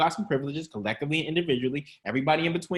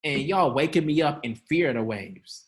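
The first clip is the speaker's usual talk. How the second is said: laughing mock Jesus. Shown as a demonstration. Jesus woken from his nap, laughing annoyed. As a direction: laugh through the complaint about the nap. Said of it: "say it from his chest".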